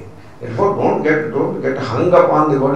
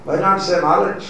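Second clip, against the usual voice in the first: higher, insistent questioning; questioner's voice; 6 semitones higher, 3 dB louder than usual. Retold or imitated. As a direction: imitate someone pressing the Swami with a question. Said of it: "So somebody asked".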